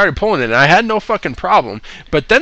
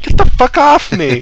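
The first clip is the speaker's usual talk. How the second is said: higher, irritated snap; mock angry snap; 9 semitones higher, 4 dB louder than usual. Patient snaps at the staff who held him down. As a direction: shove them off with your words.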